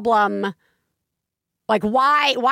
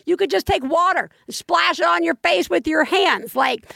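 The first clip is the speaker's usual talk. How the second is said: incredulous parental rant, pitched up; retold yelling; 5 semitones higher than usual. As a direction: re-enact losing your mind at a child. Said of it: "I yelled. I was like".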